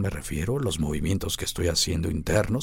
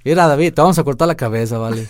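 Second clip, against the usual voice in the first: put-on Michoacán accent; 5 semitones higher, 7 dB louder, faster than usual. Jokey threat in Michoacán accent.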